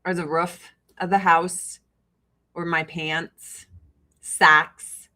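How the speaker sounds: flat Chicago-area Midwestern vowels; Midwestern accent. Shown as a demonstration. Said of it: "most Midwestern you've ever sounded".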